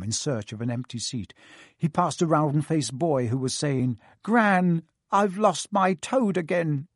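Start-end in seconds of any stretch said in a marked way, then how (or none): 4.2-6.9 put-on worried boy voice. A narrator's reading. Boy calls to his gran.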